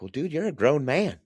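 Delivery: high-pitched, insistent retold reply; exasperated retort. Father telling his grown son he decides for himself, exasperated.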